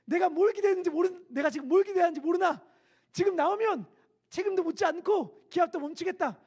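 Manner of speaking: loud high shouted rebuke; frustrated officer shout. Retold or imitated. Drill officer shouting in frustration at recruits. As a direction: yell it out in frustration.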